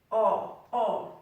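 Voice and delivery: "R" as a long, open English ah; English "R", one long vowel without any glide; long vowel sound. Shown as a demonstration. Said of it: "Un son long".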